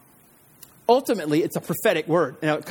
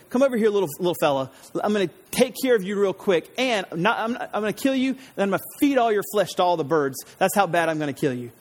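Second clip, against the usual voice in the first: trash talk; faster than usual. Retold or imitated. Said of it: "that's Goliath doing the trash talk".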